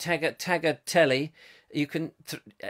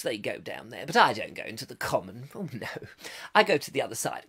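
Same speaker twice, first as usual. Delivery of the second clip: snobbish posh lady; 4 semitones lower, 5 dB quieter than usual. Pretend. Mock snob sneering at commoners.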